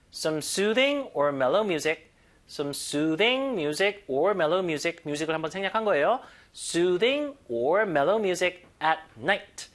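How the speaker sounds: very slow, soothing hit hard; stress on soothing. Shown as a demonstration. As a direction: punch soothing, glide the rest slowly. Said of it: "강세 주시고". (soothing에 강세 주며 천천히)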